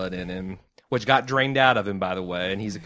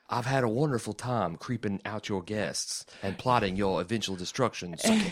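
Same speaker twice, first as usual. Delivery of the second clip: creepy vampire voice; 4 dB quieter than usual. Acted. Voicing Bill's creepy line.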